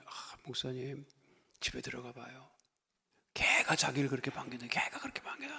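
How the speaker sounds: hushed whisper, voiceless; whispered confiding. Retold or imitated. Congregant to pastor about her dog, whispering. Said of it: "왜 이렇게 공을 들이냐 그랬더니".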